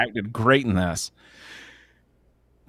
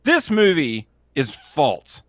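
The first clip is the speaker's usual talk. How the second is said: flat-earther rant. Pretend. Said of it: "I'm just kidding".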